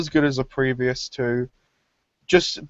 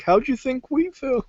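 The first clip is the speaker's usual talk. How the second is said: much higher squeaky retort; tiny creature voice; 12 semitones higher than usual. Retold or imitated. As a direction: squeak it back. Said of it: "It's like".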